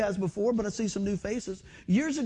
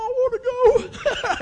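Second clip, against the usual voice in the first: eager excitement; 7 dB louder, much slower than usual. Retold or imitated. Recalls eagerly agreeing to go.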